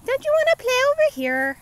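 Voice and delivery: high, loud coaxing call; sing-song call across the playground. Real, not acted.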